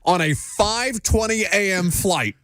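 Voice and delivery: words pushed high through real laughter, slow; laughing while telling. Real, not acted. Host telling co-host about strangers sitting beside him, laughing. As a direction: laugh your way through the unbelievable part.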